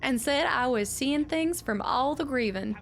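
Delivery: a lightly voiced old widow reading her letter; old widow's letter. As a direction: read it as the bitter old miner's widow. Reads old woman's letter aloud.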